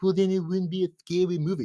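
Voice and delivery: mock sarcastic retort. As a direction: toss it back with a sneer. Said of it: "you're like".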